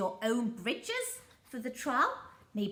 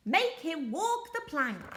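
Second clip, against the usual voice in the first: pirate demand; 6 semitones higher, 4 dB louder than usual. Acted.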